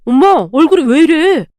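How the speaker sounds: son crying out to mother in hospital bed, surprised; startled call. A narrator's reading. Son shocked at mother's face, calling out in surprise. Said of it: "남편이 놀란 듯 외쳤어요".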